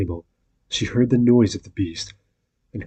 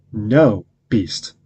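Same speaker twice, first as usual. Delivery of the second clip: a firm, louder "No"; 4 dB louder than usual. Acted. Beauty refusing the beast's proposal, firm and louder. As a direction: refuse him plainly and firmly. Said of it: "in a very firm tone".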